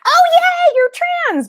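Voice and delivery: high, overjoyed mock squeal; sing-song fake delight; mock cheer. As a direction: gush like a parent thrilled on the spot. Mock reaction they did not have.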